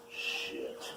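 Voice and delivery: very soft breathy curse; whispered shit. Real, not acted. Cook swearing quietly at the pan. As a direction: breathe it out low.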